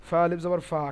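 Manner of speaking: ফা held long at the end for alif madda; ফা pulled long, madda style; drawn-out fa. Shown as a demonstration. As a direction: stretch the vowel of ফা. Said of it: "কেন টানছে?".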